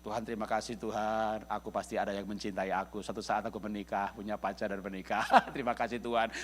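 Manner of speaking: a soft, contented prayer of thanks; thankful prayer. Retold or imitated. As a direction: pray like someone grateful and at peace. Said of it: "dalam ucapan syukur".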